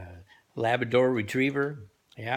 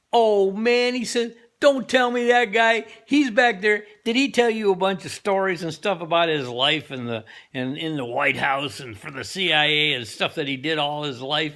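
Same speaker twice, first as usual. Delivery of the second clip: higher, louder, slowed fed-up outburst; exasperated owner; 4 semitones higher, 4 dB louder than usual. Acted. Owner exasperated at the driver's question, loud and high. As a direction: blow up in disbelief at the question.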